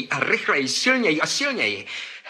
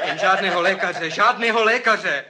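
laughing; 4 semitones higher than usual. Real, not acted. Říká se smíchem.

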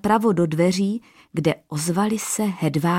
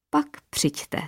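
high, soft, smiling tease; a sly smile in the voice; king smiling slyly as he sends them off; 9 semitones higher, 5 dB quieter than usual. A narrator's reading. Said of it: "usmál se".

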